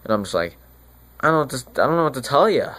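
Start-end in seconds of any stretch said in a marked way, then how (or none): 1.2-2.7 higher, flustered retold reply; mock helpless fluster. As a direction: act helplessly stumped, pitched up. Friar at a loss when begged.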